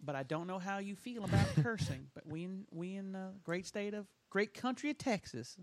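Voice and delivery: mock a pious Texan, hushed; Southern Baptist voice. Lecturing Californians in a light Southern Baptist voice. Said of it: "my Southern Baptist voice".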